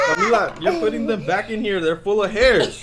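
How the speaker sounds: laughing. Real, not acted. Laughing complaint.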